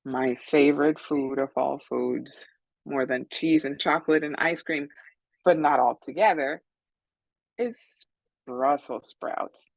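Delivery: measured reading with suspenseful pauses; story read-aloud. A narrator's reading. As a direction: hold back the last words for the children. Author reads her story to children.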